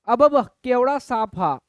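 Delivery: slow, drawn-out mock amazement; acted astonishment. Shown as a demonstration. Teacher acting out seeing a huge snake, mock astonishment. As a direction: stretch it out in wonder. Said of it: "आश्चर्य".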